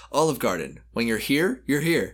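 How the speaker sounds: gurgly, wet announcer voice. Acted. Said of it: "Announcer, wet voice".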